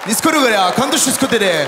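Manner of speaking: straining, forceful mock-Japanese babble; mock constipated Japanese. Comedian showing how Japanese sounds, mock constipated Japanese. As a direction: push out Japanese-like words as if constipated. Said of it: "on dirait qu'ils essaient de chier, mais ils sont constipés".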